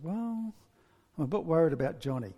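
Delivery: acted reluctant confiding; hesitant reply. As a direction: pause before owning up to the worry. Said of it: "she kind of pauses".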